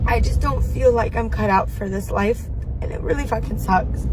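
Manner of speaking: sobbing through the words; ugly crying, voice breaking; snotty crying. Real, not acted. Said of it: "Oh my God, I'm ugly crying".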